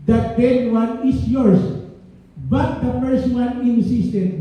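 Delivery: slow, deliberate Bible reading; scripture reading. Acted. Preacher reads 1 Kings 3:22 slowly to the congregation. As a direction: read the verses out slowly to the congregation.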